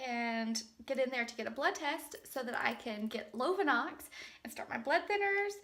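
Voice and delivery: unvoiced, hushed planning; soft stunned whisper. Real, not acted. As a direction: whisper it to yourself. Whispering to herself after test.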